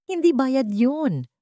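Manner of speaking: a slow, insistent interruption; cutting in. A narrator's reading. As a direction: interrupt her firmly, slowly. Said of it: "putol ni Lino".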